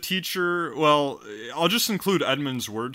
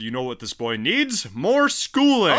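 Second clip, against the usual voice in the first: imitated mom; 3 semitones higher, 4 dB louder than usual. Mimics mom deciding on more schooling.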